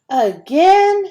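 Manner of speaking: high, loud whiny "again"; groaning protest. A narrator's reading. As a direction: protest it like a put-upon kid. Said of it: "he protested with a groan".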